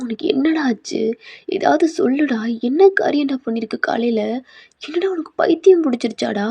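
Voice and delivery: acted alarm, a touch of scolding; exasperated confronting. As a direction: demand an answer from a friend. Friend confronts Thayang in alarm.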